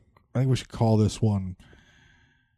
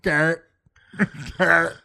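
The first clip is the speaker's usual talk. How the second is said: higher, louder mock-Aussie; Australian accent; 7 semitones higher, 5 dB louder than usual. Friends trading the name back and forth, Australian accent. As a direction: punch the name out in an Aussie twang. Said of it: "No, he was Australian".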